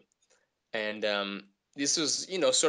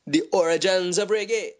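mock announcement; 9 semitones higher, 10 dB louder than usual. Mock announcement of the reggae tale.

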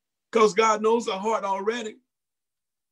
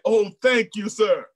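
grateful; 3 semitones higher, 5 dB louder than usual. Retold or imitated. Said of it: "she explained".

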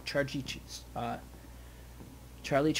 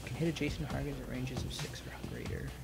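whispered reading; 5 dB quieter than usual. Real, not acted. Reading rules quietly.

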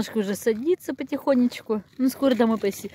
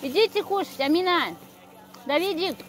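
higher, carrying call; 5 semitones higher, 3 dB quieter than usual. Real, not acted. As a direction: call them in to eat. Calling kids to eat.

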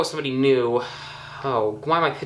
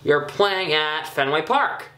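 voice crack; slower than usual. Real, not acted. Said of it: "Voice crack".

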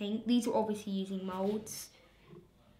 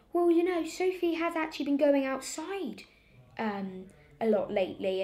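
high, put-on innocent excuse; simpering teacher; 5 semitones higher than usual. Girl imitating the substitute fibbing to her mum, high. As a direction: lightly mimic a teacher covering herself.

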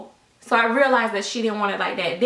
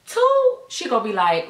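mock shriek; 2 semitones higher, 4 dB louder than usual. Mocking daughter's future child.

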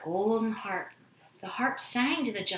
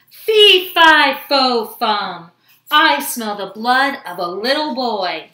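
giant's shout; 14 dB louder than usual. A narrator's reading. Greedy giant sniffs out a boy in the kitchen, shouting. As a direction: boom it out like a storybook giant. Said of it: "he shouted".

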